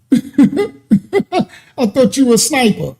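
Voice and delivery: slow, laughing jab at the troll; teasing a troll while cracking up; laughing tease. Real, not acted. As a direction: laugh the words out slowly as a taunt.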